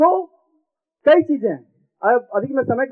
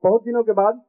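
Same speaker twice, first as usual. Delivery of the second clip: comic verse recited with each line repeated; sing-song stage reading for a laughing crowd; poem recitation. Acted. Poet reciting a comic poem to the audience, rhythmic stage recitation.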